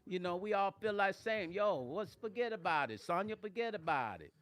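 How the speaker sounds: hammed-up New York accent; playful New York-Jersey accent. Teasing Sonya who's not from Jersey, mock New York accent. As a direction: play up a street-corner New York accent.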